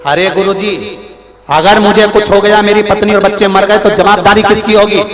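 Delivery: anxious pleading. Acted. Seth anxiously pleading with guru.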